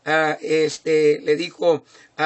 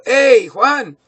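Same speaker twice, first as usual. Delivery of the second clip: calling out; 5 semitones higher, 7 dB louder than usual. Retold or imitated. Father calls his son by name.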